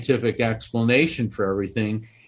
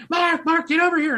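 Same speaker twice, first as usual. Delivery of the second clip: high-pitched mock yell, much higher; retold screaming. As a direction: call him over in a pitched-up excited yell.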